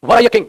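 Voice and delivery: "Were" hit high and loud at the start; emphatic inversion. Shown as a demonstration. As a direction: stress "Were" like a rhetorical question. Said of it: "emphasise करने के लिए use किया जाता है".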